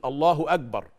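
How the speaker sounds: "أكبر" run together with g for ك, "agbar"; mispronounced kaf. Shown as a demonstration. Teacher imitating the common mistake, g sound in "أكبر". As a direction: turn the ك of "أكبر" into a voiced g. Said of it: "يقول".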